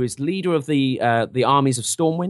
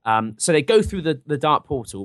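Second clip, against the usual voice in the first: normal talking voice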